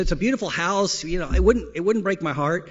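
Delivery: a hint of a coaxing wife; wife's voice. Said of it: "She said".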